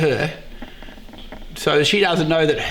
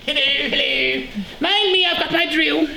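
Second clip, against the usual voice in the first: higher, put-on toff voice greeting the trade counter; posh tradesman act; 9 semitones higher than usual. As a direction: ham up a snooty tradesman strutting in with his drill. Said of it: "they don't talk like that".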